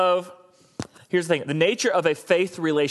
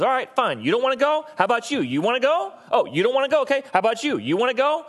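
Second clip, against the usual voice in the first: higher, brisk voice turning from one person to the next; God moving on; 9 semitones higher than usual. Pretend. God, refused, quickly asking someone else to go instead. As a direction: shrug off the refusal and cheerfully ask the next one. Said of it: "he goes".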